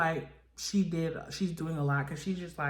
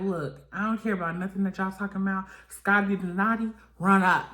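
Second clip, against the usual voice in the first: mock yell; 3 semitones higher, 5 dB louder than usual. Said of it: "she's like".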